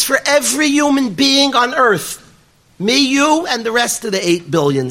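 the preacher voicing the boy's tearful prayer to God; tearful plea. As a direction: pour out your hurt to God, retold. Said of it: "He bursts out crying and he says to Hashem".

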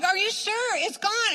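high-pitched incredulous check; retold astonishment.

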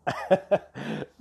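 sudden cough from a frog in the throat; throat-clearing cough. Real, not acted. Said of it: "A little bit of a frog in my throat mid-recording".

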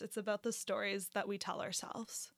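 a hushed, knowing whisper. Real, not acted. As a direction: whisper the quote softly. Quoting Brene Brown softly.

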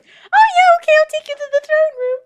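high cheery salesman voice. Acted. Guard persuaded.

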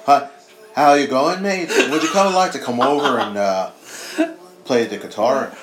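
mock British accent, loud; hammed-up British musician voice; a band. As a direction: playfully put on a British band member's accent. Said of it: "a band".

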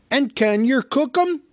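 high, loud greedy troll. A narrator's reading. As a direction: ask it like a hungry troll. Tom the troll asks.

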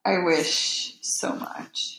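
slow sad hush; wistful whisper. Real, not acted. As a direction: let it fall to a whisper. Wistful about the dead actor.

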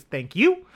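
"Thank you." with a matter-of-fact punch on "you"; stress on you. Retold or imitated. Partner on a film thanks Tony, deadpan stress on "you". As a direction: lean hard on "you", deadpan and plain. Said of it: "such an emphasis on the word you".

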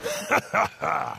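thunder god laugh. Acted. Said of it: "The thunder god laughed".

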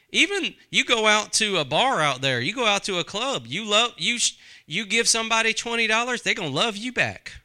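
ordinary talk, nothing marked

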